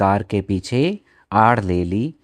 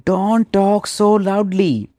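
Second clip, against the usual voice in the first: hushed plea; 9 semitones higher, much slower than usual. Retold or imitated. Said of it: "तो रवि ने उसे भी कहा".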